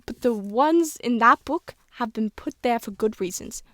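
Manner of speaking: lightly voiced old British schoolteacher; old woman explaining, hint of British accent; a touch of elderly British teacher; Miss Granger. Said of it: "I'm trying to sound how Miss Granger would sound".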